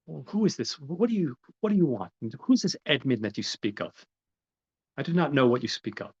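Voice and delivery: high-pitched mock confusion, stumbling over the question; feigned bafflement. Count denying to Mercedes that he is Edmund, feigned bafflement. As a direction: act out a flustered denial.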